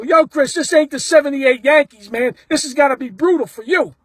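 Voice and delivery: razz a player across the distance; mildly hollered fan banter; retold holler. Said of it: "I gotta holler out a little bit".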